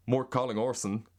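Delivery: careful go at an American accent. Shown as a demonstration. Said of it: "Here's American".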